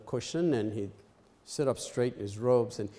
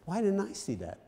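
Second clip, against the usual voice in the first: mock dismay; 8 semitones higher than usual. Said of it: "and they say".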